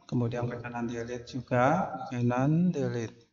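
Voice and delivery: slightly hoarse, just after the jab; a rough, husky throat. Real, not acted. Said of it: "suara Bapak agak serak".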